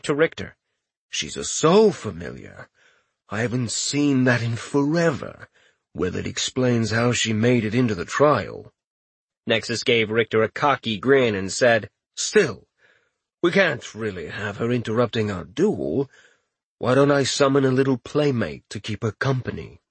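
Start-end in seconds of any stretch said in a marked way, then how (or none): 1.1-8.7 lightly voiced cocky giant; a hint of a smug giant. Giant character speaks. 12.2-19.8 lightly voiced cocky giant; a hint of a smug giant. Giant character speaks.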